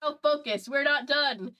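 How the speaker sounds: roaring Thor-like. Acted. The speaker rallying his brother to focus, mock roar. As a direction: bellow at your team like a thunder god, half-hammed. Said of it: "Roaring Thor-like".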